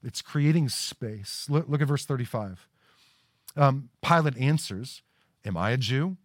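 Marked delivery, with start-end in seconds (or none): 5.5-6.2 cynical and hard. Acted. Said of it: "the cynicism and hardness in his voice".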